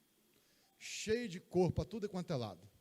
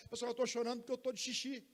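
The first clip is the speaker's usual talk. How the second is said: put-on higher, quick childlike explaining; baby talking; 6 semitones higher than usual. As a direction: pretend the baby can talk. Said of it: "Se ele soubesse falar".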